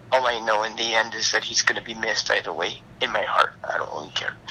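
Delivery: hushed and grieving; whispering. Real, not acted. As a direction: whisper through the grief. Grief, whispered lines.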